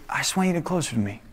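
soft, quick hushed answer; gentle, quiet voice of God; calm reply. Retold or imitated. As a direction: answer the frantic one very softly. God's calm reply to frantic questions.

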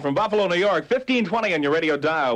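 upbeat sixties DJ over the music; radio DJ patter. Acted. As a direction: hype the station between records.

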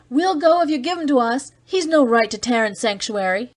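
high angry yell from the crowd. A narrator's reading. A rioter yells his demand at Cargill. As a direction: demand the prisoner, loud and sharp. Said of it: "one of the mob yelled".

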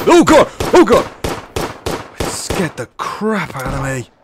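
startled screaming in real fright; scared shout. Real, not acted. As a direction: yelp and shout, genuinely jump-scared. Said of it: "Apologies for shouting down the microphone".

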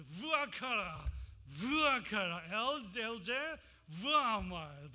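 Vuakara vuakara el elze vuamar chanted in Hebrew sounds; Hebrew reading. Shown as a demonstration. Preacher reading Isaiah in Hebrew, chanted Hebrew pronunciation. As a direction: read it out in Hebrew, each word falling. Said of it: "In original Hebrew, it goes like this".

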